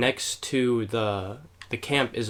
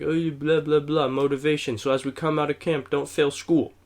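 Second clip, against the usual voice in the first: mock motivational speaker; 3 semitones higher than usual. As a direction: lightly mimic a rambling camp speaker. Mimicking the guy's dull speech.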